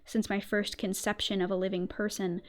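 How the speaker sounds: slow, hushed gothic storytelling; story narration. Acted. Reads the story in ASMR narration.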